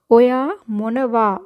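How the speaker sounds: वा held on a long open aa; long vowel demo. Shown as a demonstration. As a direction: stretch the aa at the end of "मोन वा". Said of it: "यहाँ पे आ sound आना चाहिए".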